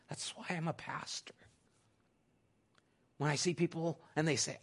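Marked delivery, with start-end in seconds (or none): 0.1-1.3 soft whispered aside. Real, not acted. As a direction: let this slip out as a whisper. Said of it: "whispered aside".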